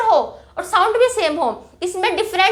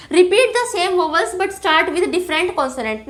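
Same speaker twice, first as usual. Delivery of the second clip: slow definition read; much slower than usual. Shown as a demonstration. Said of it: "assonance का क्या मतलब होता है".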